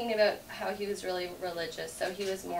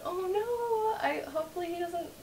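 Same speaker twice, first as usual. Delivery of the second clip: mock panic; 10 semitones higher than usual. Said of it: "I was like".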